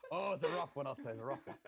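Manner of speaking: bad comedian impression; rough attempt at a stand-up's catchphrase voice; put-on comic grumbling; Rodney Dangerfield. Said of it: "You're doing Rodney Dangerfield?".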